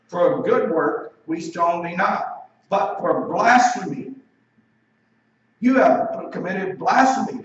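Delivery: emphatic, measured accusing voice; solemn accusation. Acted. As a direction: pronounce the charge slowly and forcefully. Acts out the accusers' answer.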